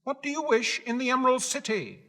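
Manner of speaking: high, sharp little-man voice; a small guard questioning strangers; gatekeeper's challenge. Acted. Little guard challenging the travelers at the gate, high. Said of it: "the man asked".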